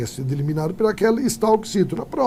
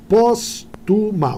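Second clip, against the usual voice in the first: "póstuma" said very slowly, stressed syllable "pós" leaned on; teacher spelling out the stressed syllable of "póstuma"; syllables drawn out; 4 semitones higher, 4 dB louder, much slower than usual. Shown as a demonstration. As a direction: stretch out "póstuma" to show the stress on the first syllable. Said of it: "o que que nós temos aqui? Uma proparoxítona".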